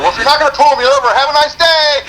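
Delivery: high, fast mock-polite brush-off; sarcastic brush-off to the trooper; sarcastic dismissal. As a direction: wave him off with fake politeness. Retold dismissal of cop.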